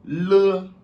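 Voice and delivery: "Le" called out high and loud; Chinese letter L. Shown as a demonstration. Teacher drilling the Chinese letter name for students, high and clear. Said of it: "Le L".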